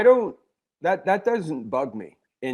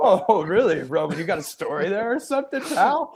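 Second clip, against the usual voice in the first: teasing; 5 semitones higher than usual. Real, not acted. Teasing Roman about LSU.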